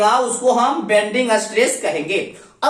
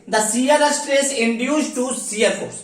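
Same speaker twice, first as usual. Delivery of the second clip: very slow, each word set apart for note-taking; slow dictation; much slower than usual. Shown as a demonstration. Teacher dictating the shear stress definition to students, very slow. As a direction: read the definition out slowly so they can copy it. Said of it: "इसका definition देखें".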